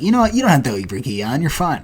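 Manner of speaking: high breezy official voice; mock weigh-in official. Weigh-in guy telling the fighter he needn't have cut, high and breezy. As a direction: toss it off lightly, high. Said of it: "The guy was like".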